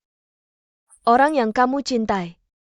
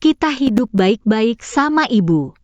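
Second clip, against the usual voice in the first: pleading; slower than usual. Acted. Begging her child to return.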